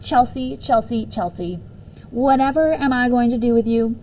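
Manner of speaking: patiently exasperated sigh of a voice; a girl scolds her teasing classmate. Acted. Mock-weary exasperation.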